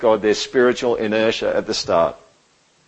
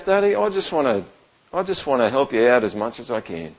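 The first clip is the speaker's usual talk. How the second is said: soft, quiet little boy asking, a hint of a child; just a hush of a small child looking up; lightly voiced little son; 6 dB quieter than usual. Small son asking his dad to come along, quietly childlike. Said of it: "And then he goes".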